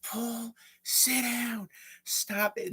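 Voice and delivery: high-pitched imitation of a scolding teacher; mock-exasperated high scolding; mock screaming teacher. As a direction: imitate a teacher shrieking at a pupil, held back in volume. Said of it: "she's screaming at him, like".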